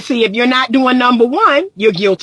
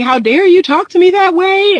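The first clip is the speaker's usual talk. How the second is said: high, indignant imitation of a crying woman; mock tearful outburst; 8 semitones higher, 3 dB louder than usual. Crying woman accusing her partner, mock tearful outburst. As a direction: act out a wounded, hammed-up protest. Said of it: "busting out crying and saying".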